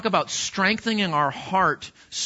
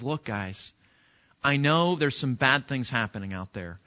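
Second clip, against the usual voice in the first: gentle pastoral plea; 3 semitones lower than usual. Retold or imitated. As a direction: plead gently like a caring elder. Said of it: "and he says".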